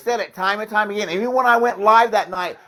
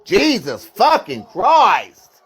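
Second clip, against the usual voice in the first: exasperated; 2 semitones lower, much slower than usual. Real, not acted. Fed up after explaining slowly.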